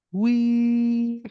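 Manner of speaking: high squeaky little wee; squealing disc. Pretend. The disc inside the player squeals a high wee. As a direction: voice the happy disc squealing with joy. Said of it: "actually just the disc going".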